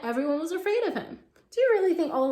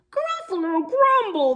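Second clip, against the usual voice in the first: a touch of alarm; 8 semitones higher, 6 dB louder than usual. Acted. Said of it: "the Gruffalo said".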